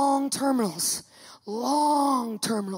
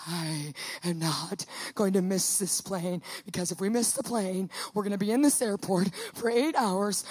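low, soft, measured vow; lowered voice of resolve; grim determination; 5 semitones lower, 4 dB quieter than usual. Retold or imitated. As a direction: seethe it quietly and deliberately. Retold grim vow not to miss plane.

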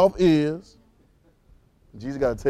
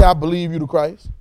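hedging, tentative reading; a hint of doubt; unsure believer; 4 dB louder than usual. Shown as a demonstration. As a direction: say it like a guess, not a fact. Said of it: "He didn't say".

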